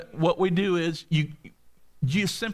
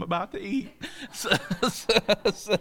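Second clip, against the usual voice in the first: bear's grace told through a laugh; laughing through the punchline; 3 semitones higher than usual. Retold or imitated. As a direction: hold back a laugh as you deliver the punchline. Joke punchline, bear saying grace.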